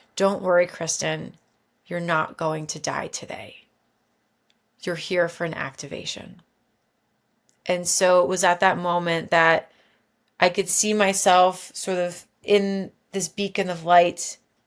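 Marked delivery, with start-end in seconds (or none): 0.2-6.4 grounded, soft, loving, calm reassuring voice. Retelling an ancestor's reassuring words in a vision: imitating a loving, calm, grounded voice. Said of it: "in such a loving but calm, grounded voice".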